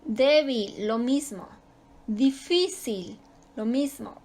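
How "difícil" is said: slow DIFÍCIL, lingering on the middle syllable; stretched stressed syllable. Shown as a demonstration. Teacher showing where the stress falls, stretching the FÍ in Difícil. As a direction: draw out the second syllable of Difícil. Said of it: "su sílaba tónica está en la penúltima".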